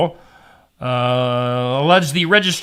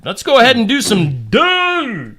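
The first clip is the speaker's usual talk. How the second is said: put-on French accent; 6 semitones higher than usual. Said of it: "No, I said duh".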